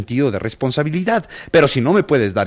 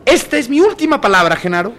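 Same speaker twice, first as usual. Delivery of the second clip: ultimatum; 8 semitones higher than usual. Acted. Employee gives an ultimatum.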